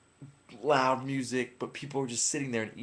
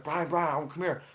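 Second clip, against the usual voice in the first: higher-pitched mimicked call; imitated beckoning; 5 semitones higher, slower than usual. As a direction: lightly mimic someone urging a friend over. Imitates girl calling him over.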